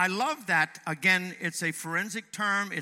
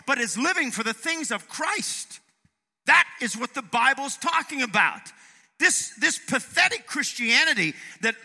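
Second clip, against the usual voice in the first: raised, emphatic preacher's voice; impassioned preaching; 5 semitones higher, 6 dB louder than usual. Real, not acted. Preacher telling congregation what real Christianity is, impassioned. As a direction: drive the point home forcefully.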